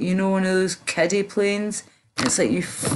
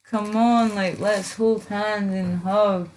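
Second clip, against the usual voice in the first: mocking quote; 3 semitones higher than usual. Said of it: "You know that whole, like, D N A thing".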